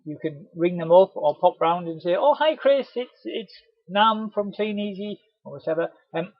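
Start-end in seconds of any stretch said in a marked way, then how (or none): 2.2-5.2 bright, higher hello, then slower introduction; chirpy, friendly opening; cheery greeting. Pretend. Delivery man ringing a customer, cheerily friendly.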